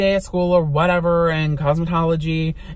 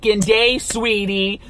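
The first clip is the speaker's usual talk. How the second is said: sassy. Retold or imitated. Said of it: "I was like".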